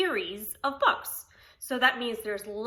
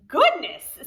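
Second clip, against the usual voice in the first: surprised; 4 semitones higher, 9 dB louder than usual. Acted. Cherry Sue greets armload at door.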